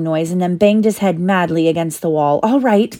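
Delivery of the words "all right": crying out. A narrator's reading. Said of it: "cried Harry".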